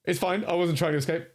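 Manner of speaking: high, jokey nervous cover. Shown as a demonstration. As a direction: play it off as a joke. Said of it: "a jokey beat".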